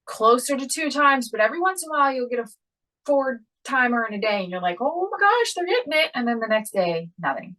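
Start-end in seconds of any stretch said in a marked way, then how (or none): 4.8-6.1 excited. Retold or imitated. Mother's excited reaction quoted.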